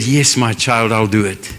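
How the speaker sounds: mother's faint scared answer; frail whisper-soft reply. Retold or imitated. Dying mother voiced in story.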